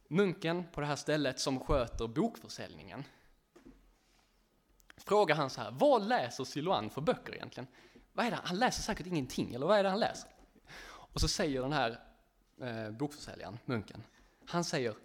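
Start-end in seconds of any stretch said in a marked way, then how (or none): 5.7-10.3 louder, exasperated questioning; a frustrated monk demanding answers. Retold or imitated. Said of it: "Så han blir så här frustrerad". (frustrerad, höjd röst)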